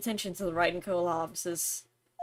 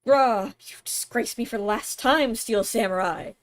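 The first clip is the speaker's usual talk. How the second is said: hammed-up villain. Streamer reading the show villain's lines, mock menace. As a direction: growl it like a cartoon villain.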